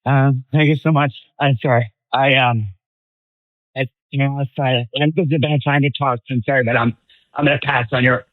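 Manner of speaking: breathless and halting after running; short of breath, words broken up. Real, not acted. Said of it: "Catching my breath".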